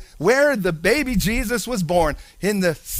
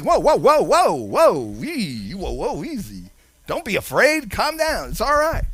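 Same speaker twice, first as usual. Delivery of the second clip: angel calming them. Acted. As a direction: settle a spooked animal. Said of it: "An angel like".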